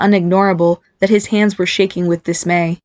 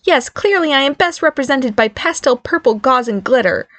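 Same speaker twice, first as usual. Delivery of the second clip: high, mock-agreeing retort; sarcastic; 6 semitones higher than usual. The speaker mocks his purple glittery outfit, sarcastic.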